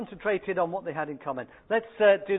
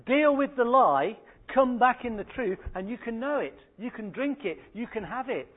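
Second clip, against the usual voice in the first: preaching appeal; 4 semitones higher, 3 dB louder than usual. Acted.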